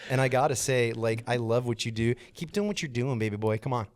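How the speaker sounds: hammed-up Jim Courier voice with laughs; Jim Courier impression. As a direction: gush like the TV commentator, breaking into laughter. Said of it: "exactly the same as how I've seen him on T V".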